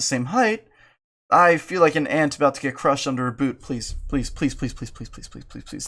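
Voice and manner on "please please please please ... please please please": begging whisper. Real, not acted.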